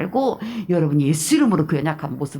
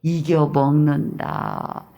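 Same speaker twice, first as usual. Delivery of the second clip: 이겨먹는다 stretched very slowly; drawn-out word; 3 semitones lower, much slower than usual. Shown as a demonstration. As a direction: linger on each syllable of 이겨먹는다. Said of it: "먹는다는 말을 좋아했던".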